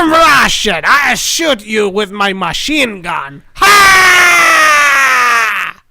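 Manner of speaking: loud, hammy fake Russian accent, shouted; Rhino's Russian accent. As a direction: bark it like a cartoon Russian villain accent. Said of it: "Russian accent was terrible".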